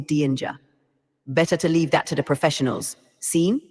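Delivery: put-on light Jamaican accent, mostly even; a hint of Jamaican patois, relaxed. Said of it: "Can you use a Jamaican accent?".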